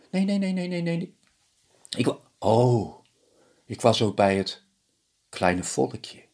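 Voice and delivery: a high panicked husband denying; frantic denial. Acted.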